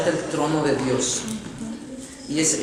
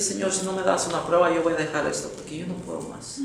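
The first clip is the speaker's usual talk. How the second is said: much softer, worn-out plea; weary quiet prayer; 7 dB quieter than usual. Retold or imitated. Man begs God for proof, quiet and spent. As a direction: let the voice sink as if giving up. Exhausted man's last prayer.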